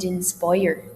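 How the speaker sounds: INSPIRE with a gliding long I; long I diphthong. Shown as a demonstration. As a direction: glide through the I of INSPIRE. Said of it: "Long I sounds are also diphthongal".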